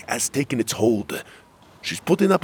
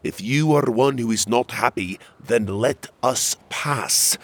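urgent demand; 5 semitones higher, 4 dB louder than usual. Acted. Prince urging guard to let dying girl pass, urgent. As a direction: press each word, rising in urgency.

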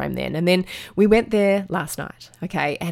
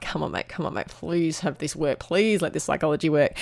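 quiet pleading; 2 semitones lower, 5 dB quieter than usual. Retold or imitated. Mum pleading privately while watching.

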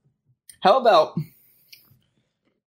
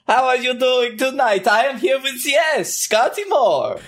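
narrator voice; 8 semitones higher than usual. Acted. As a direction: greet the crowd like a storyteller. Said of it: "And this is my narrator voice".

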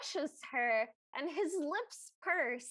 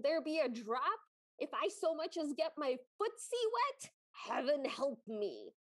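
lightly voiced troll; 2 semitones lower than usual. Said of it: "And the troll goes".

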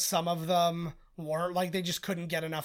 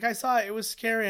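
put-on child voice; 4 semitones higher than usual. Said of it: "And he's like".

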